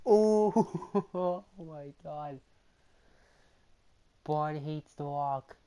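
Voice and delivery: high, loud match commentary; excited play-by-play. Real, not acted. Gamer yelling commentary as Braun attacks The Rock. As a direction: call the action like a hyped announcer.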